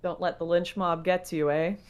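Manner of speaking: mock compliment, understated sarcasm; sarcastic. Real, not acted. Co-host complimenting a streamer on his unchanged positions, sarcastically. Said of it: "I can hear the sarcasm dripping in your fucking voice".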